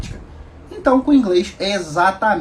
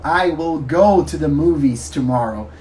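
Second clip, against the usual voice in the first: slow stiff textbook English; 5 semitones lower, slower than usual. Shown as a demonstration. Teacher showing students the form Americans rarely use, slowly. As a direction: say "I will go to the movies tomorrow" slowly and stiffly. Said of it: "Eu não falo".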